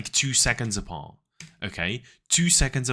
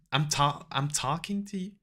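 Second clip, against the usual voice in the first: put-on higher, unsure American accent; attempted American accent; 5 semitones higher than usual. Imitating American lady telling off a man, tentative American accent. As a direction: have a shaky go at sounding American. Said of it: "I can't do an American accent".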